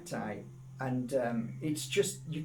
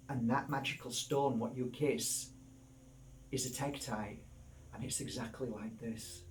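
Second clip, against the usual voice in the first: soft, low imagined reply to a friend; hushed, measured reasoning; quiet explaining; 4 semitones lower, 7 dB quieter than usual. Retold or imitated. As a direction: lay out the point gently, voice dropped.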